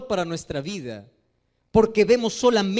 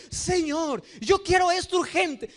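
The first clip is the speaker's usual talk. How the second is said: demanding prayer; 7 semitones higher than usual. Pretend. Believer demanding urgently of God, raised insistent plea. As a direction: demand it of the Lord like a spoiled child.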